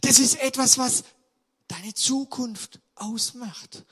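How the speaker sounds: fervent sermon cry; forceful preaching. Real, not acted. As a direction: hammer the point home to the church. Preacher drives home point.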